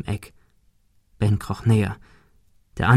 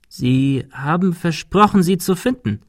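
reproachful apparition; 6 semitones higher than usual. A narrator's reading. Apparition reproaches Ben formally.

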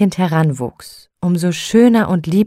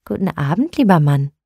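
kindly, welcoming hello; a warm, friendly good evening; friendly greeting. Acted. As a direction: greet him gently and kindly. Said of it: "sagte freundlich".

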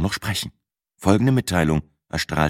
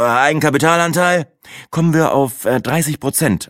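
higher-pitched, mildly proud reply; proud answer; 8 semitones higher, 3 dB louder than usual. A narrator's reading. Narrator answers about his capital share, proudly. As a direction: answer with a touch of pride. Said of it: "antwortete ich stolz".

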